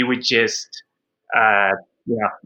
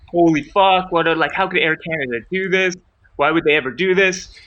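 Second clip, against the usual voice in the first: higher, louder outraged rant; upset John; 5 semitones higher, 3 dB louder than usual. Retold or imitated. John raging about Air Canada losing his wife's luggage, higher and louder. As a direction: mimic a friend furious at the airline. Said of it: "This really upset John. He's like".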